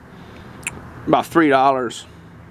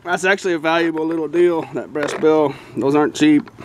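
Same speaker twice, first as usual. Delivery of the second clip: muffled, talking around a flashlight; flashlight in mouth. Real, not acted. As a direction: mouth held open on a flashlight. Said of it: "hold the flashlight in my mouth".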